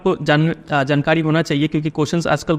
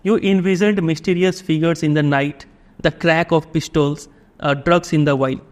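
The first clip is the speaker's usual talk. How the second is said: drawn-out, deliberate reading of the text; slow passage reading; much slower than usual. A narrator's reading. Teacher reading the English passage to the class, very slow. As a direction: read it slowly so students can follow. Reads the story passage aloud.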